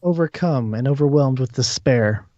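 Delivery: measured narration with weighted pauses; game master's scene setting. Acted. Game master tells a player despair overwhelms the character, measured narration. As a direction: let each phrase of the description settle.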